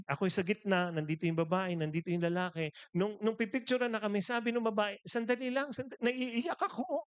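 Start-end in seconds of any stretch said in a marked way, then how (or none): 5.1-7.1 high-pitched, imitated choking up; mock tearful. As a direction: act out a fan overcome with emotion. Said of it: "Nag-iiyakan sila". (kunwaring naiiyak sa tuwa)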